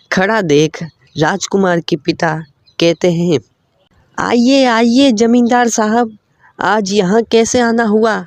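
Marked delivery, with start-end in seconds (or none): 4.2-8.1 higher, lightly voiced humble old man; humble father welcoming. The prince's father welcoming the zamindar, higher humble voice. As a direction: welcome the rich guest, a touch higher and humble.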